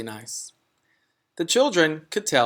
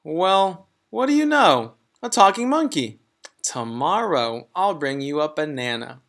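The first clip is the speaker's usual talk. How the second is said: higher, louder amazed teacher; higher teacher voice, mock amazement; delighted surprise; 3 semitones higher, 3 dB louder than usual. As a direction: marvel at a talking monkey. Mrs Jewls amazed by talking monkey.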